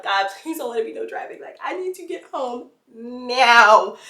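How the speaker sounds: a touch of crying plea; plead, near tears; desperate pleading. Retold or imitated. Praying for no traffic.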